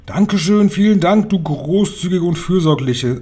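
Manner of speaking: high-pitched fawning chorus; witches' grateful chorus. A narrator's reading. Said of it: "sangen die alten Hexen im Chor".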